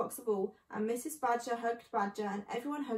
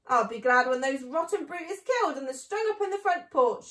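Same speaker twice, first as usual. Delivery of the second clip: called out; 3 semitones higher, 7 dB louder than usual. A narrator's reading. Mabel calling up from the cellar, raised voice. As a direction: voice carried up to the floor above. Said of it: "she called out".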